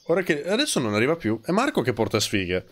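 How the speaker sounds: usual speaking voice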